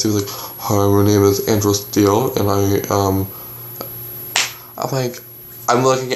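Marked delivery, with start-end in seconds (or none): 0.3-3.3 a hint of a deeper-voiced caller. Retelling the second caller's introduction, slightly deeper imitation. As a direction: lightly imitate the same man disguising himself. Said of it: "but it was a deeper voice".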